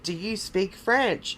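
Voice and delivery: drawn-out "Do you speak French?"; spaced-out, emphatic "Do you speak French?"; slow, deliberate question. Retold or imitated. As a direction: ask "Do you speak French?" slowly, word by word. Retold question, repeated for emphasis.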